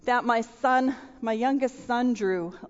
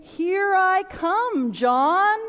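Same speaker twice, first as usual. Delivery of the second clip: dad's rescue call; 6 semitones higher, 4 dB louder, much slower than usual. Retold or imitated. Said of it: "Dad is saying".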